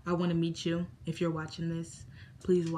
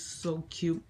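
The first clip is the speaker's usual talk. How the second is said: whisper; 4 dB quieter than usual. Real, not acted. Whispered aside.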